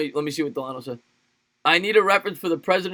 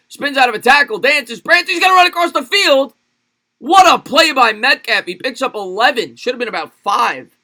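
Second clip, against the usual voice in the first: rising, louder sportscaster call that peaks at the spin; live play-by-play; 5 semitones higher, 7 dB louder than usual. Acted. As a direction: streamer calling his game like a TV broadcaster, excited play-by-play.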